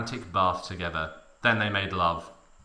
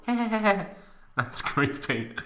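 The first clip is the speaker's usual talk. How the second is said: very slow, dry disgust; deadpan comment; 9 semitones higher, much slower than usual. Real, not acted. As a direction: drag it out dryly. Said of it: "reader comments slowly".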